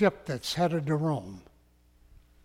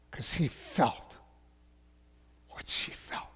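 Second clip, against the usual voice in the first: hushed compassion; 2 semitones lower, 8 dB quieter than usual. Real, not acted. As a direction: let it sink into a breath, tenderly. Preacher tells of Jesus' compassion.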